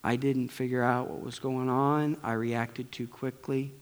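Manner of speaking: soft, quiet apology to son; father apologizing to son Keegan, softly; retold apology. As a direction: gently say sorry to your boy. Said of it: "I had to go back and say".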